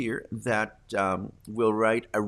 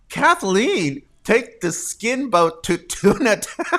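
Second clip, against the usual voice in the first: laughing; 7 semitones higher, 5 dB louder than usual. Real, not acted. Host gasping as he reads Kathleen's comment, laughing. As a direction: gasp then read it high and loud, laughing.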